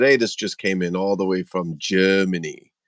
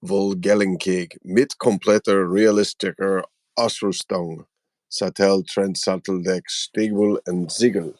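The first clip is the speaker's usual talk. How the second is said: amateur German pronunciation, word by word; attempted German. Shown as a demonstration. Host reads a toy box aloud, attempting German. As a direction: carefully sound out German box text. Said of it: "I don't know if I can do German".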